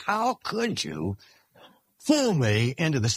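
a hint of a betrayed child pleading with her father; hurt daughter. Preacher voicing his daughter's reproach after her tonsils, mildly hurt.

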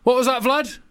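a hint of a presidential Obama. Obama ringing Putin to warn him over Ukraine, lightly voiced. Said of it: "I'm playing Obama".

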